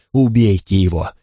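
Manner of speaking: plain reading voice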